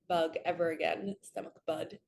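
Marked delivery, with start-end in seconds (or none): 1.2-2.0 whispered to herself, amused. Real, not acted. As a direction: whisper the slip with a laugh. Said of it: "Like it was my buddy".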